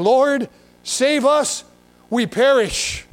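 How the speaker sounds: slow, drawn-out scripture cry; not very gentle plea. Acted. Disciples waking Jesus in the storm, a measured, drawn-out plea. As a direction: stretch out the plea for rescue. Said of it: "I don't think very gently".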